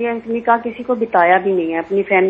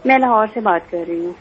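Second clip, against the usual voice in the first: speaking up. Real, not acted. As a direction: push the voice out so the host hears. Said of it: "آپ تھوڑا سا اونچا بولیں گے".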